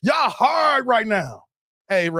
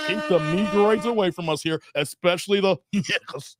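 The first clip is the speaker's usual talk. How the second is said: mocking gatekeepers again. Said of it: "they're like".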